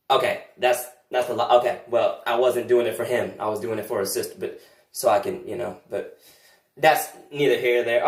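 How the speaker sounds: low, sulky muttering; low grumbling aside. Acted. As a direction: mutter it under your breath.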